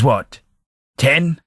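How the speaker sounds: can't believe what you just heard; startled disbelief; incredulous. Acted. Incredulous at being called ten.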